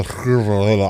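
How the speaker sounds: clumsy attempt at a rolled R; failed tongue roll. Shown as a demonstration. Streamer showing Spanish rolls, failed tongue trill. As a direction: try to trill and fail. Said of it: "I can't, I can't roll".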